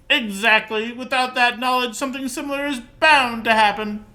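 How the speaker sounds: high, loud put-on nerd. Player reading dialogue option to scientist, nerd voice. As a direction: pitch it way up like a lecturing nerd. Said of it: "That's just my nerd voice".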